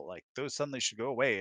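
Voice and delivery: ordinary talk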